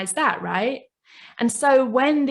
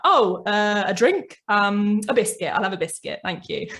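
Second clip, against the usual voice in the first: put-on sheepish child. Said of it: "make something up".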